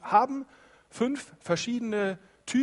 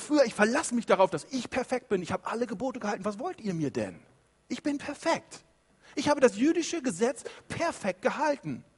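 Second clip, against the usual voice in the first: proud Pharisee; 5 semitones higher than usual. Acted. Preacher voices proud Pharisee Paul.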